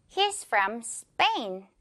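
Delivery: slow "He's from Spain" with a tense p in "Spain"; slow model sentence. Shown as a demonstration. Teacher models the sentence slowly for learners. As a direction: draw each word out, "Spain" with no puff after the p. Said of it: "from이라는 표현 하나만 써주면".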